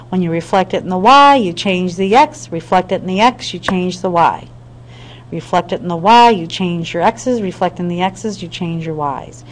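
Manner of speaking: lightly sing-song memory rule; sing-songy. Shown as a demonstration. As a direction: chant it lightly like a rule for kids, lilting up on each half. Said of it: "get going a little sing-songy voice".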